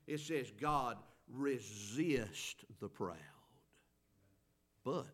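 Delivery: slow whisper of a key verse. Acted. Preacher drops to hushed emphasis.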